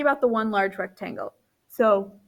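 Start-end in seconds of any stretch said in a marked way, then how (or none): 1.7-2.2 speaking through a yawn; word stretched by a yawn. Real, not acted. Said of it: "I don't know why I'm yawning".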